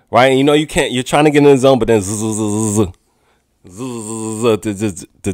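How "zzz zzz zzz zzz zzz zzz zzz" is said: low, buzzing mumble noise; imitated mumbling. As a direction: imitate a quiet drone of talk in the ear. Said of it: "the mumbling in your ear".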